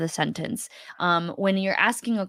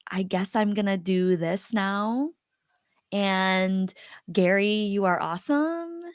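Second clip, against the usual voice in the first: unsure uptalk. Shown as a demonstration. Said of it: "it might sound something like".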